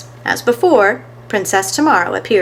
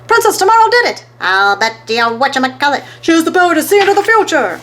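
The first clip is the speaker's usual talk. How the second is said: much higher, loud astonished cry; amazed crowd; 8 semitones higher, 5 dB louder, faster than usual. A narrator's reading. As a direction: gasp it out in wonder.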